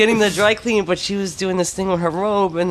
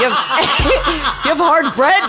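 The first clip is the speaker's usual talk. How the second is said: higher, louder doting lady with a laugh; Greek wife fussing; 9 semitones higher, 4 dB louder, faster than usual. Retold or imitated. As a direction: ham up the pushy hostess, laughing through it. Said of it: "she was Greek".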